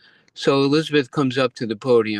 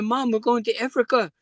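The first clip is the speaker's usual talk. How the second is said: Elizabeth's voice; 12 semitones higher than usual. Retold or imitated. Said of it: "I said to my mother".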